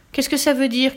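high-pitched, angry demand; crying out. A narrator's reading. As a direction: demand it as an outraged father. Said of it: "cria Papa Saïd". (père en colère qui s'écrie)

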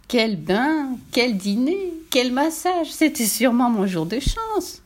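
lightly voiced contented little pig; delighted piglet. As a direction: relish each treat as the piglet. (petit cochon ravi)

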